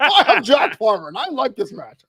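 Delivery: mocking impression, loud and drawn-out, breaking into laughter; Jack Farmer. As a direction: exaggerate a co-host's booming enthusiasm, laughing. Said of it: "Why is the Jack Farmer pressure".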